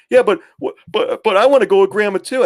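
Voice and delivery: high-pitched imitation of an aggrieved girl; protesting daughter. Daughter objects to twins going with Grandma, mock protest. Daughter argues back to dad.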